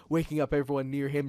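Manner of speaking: plain reading voice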